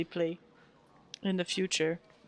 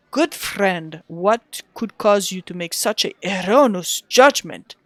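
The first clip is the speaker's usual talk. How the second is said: put-on Russian accent; 3 dB louder than usual. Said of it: "trying to do the Wizard of Tay voice".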